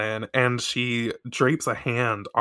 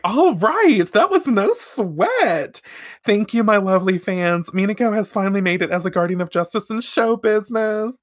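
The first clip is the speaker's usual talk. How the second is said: triumphant diva voice; 9 semitones higher than usual. Retold or imitated. Voicing Minako's triumphant speech.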